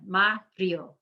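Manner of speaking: "Mario" in two syllables, MA-rio; I and O together. Shown as a demonstration. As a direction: stress the MA of "Mario" and run "io" into one sound. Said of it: "the I and the O work together".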